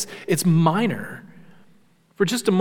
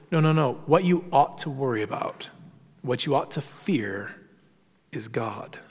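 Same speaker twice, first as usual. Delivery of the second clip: softer and softer until a whisper on God; hushed warning; 4 semitones lower, 7 dB quieter than usual. Retold or imitated. Preacher voicing Jesus' warning to fear God, fading to a whisper. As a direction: lean in and breathe the last words.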